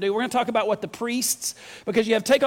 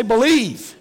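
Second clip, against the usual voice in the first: louder, full-throated believe; said like you're saved; 6 dB louder than usual. Shown as a demonstration. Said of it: "Say it like you're saved".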